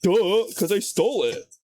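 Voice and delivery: offhand, as if it's obvious; mock-casual underwear thief; mock nonchalant. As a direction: shrug it off with Duh. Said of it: "like, really nonchalant".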